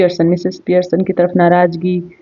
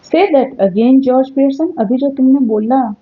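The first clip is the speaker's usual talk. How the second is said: challenging; 5 semitones higher than usual. Acted. Wife challenging husband.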